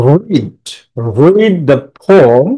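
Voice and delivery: রিড drawn out with emphasis; slow, emphatic রিড; stress on রিড. Shown as a demonstration. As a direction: lean firmly on the one-syllable word রিড. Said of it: "জোর দিয়ে পড়তে হয়".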